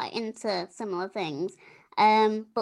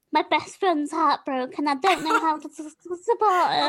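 louder, higher mock-upset friend; imitated tearful distress; 5 semitones higher, 5 dB louder than usual. Podcast host imitates friend bursting in upset, mock tearful. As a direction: stammer through a hammed-up plea for support. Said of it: "I started crying".

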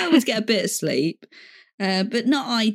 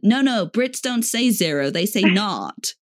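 retold American. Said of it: "one of them went".

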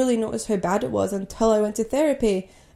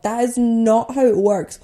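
slow, louder, emphatic retort; exasperated correction; 3 semitones higher, 6 dB louder than usual. Retold or imitated. Twin answering classmates who punched them, exasperated. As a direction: spell it out in retold exasperation. Retelling exasperated reply to bullies.

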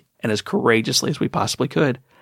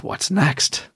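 eager victor; 4 semitones higher, slower than usual. Retold or imitated. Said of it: "The next question is".

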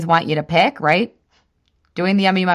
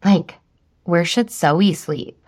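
mock asking husband; 3 semitones lower, much slower than usual. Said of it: "I was like".

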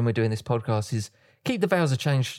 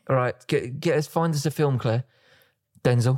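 nonchalant. Retold or imitated. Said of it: "how nonchalant and how casual it was".

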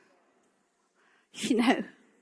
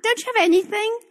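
mild frustrated plea; 4 semitones higher, faster than usual. Retold or imitated. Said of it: "I was mad".

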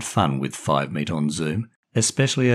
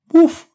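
sharp high imitated woof; dog bark; 13 dB louder than usual. Timmy the dog butting into the Zoom call, loud bark. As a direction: bark like a small eager dog.

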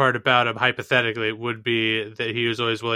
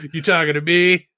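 Taxi Driver quote; 4 semitones higher, 4 dB louder than usual. Retold or imitated. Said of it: "doing the".

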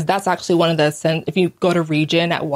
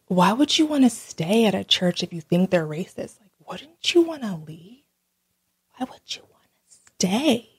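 mock elders; 5 dB quieter than usual. Elders questioning why she stays.

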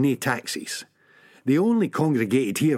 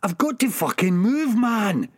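ऊँची आवाज़ में चिल्लाकर; बेचैन होकर ज़ोर से पुकारना; shouting; 10 semitones higher than usual. Acted. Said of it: "he shouts".

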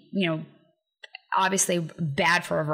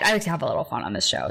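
ordinary delivery

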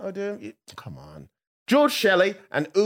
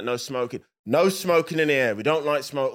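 Peaky Blinders voice; 2 semitones lower than usual. Shown as a demonstration. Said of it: "I'm doing it in Peaky Blinders style".

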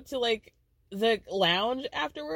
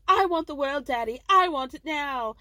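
put-on spoiled child; 5 semitones higher, 3 dB louder than usual. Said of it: "she's like Veruca Salt".

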